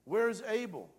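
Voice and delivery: loud, high, insistent demand; God confronting Cain. Acted. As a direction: thunder the question at the guilty brother. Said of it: "God comes up and he says".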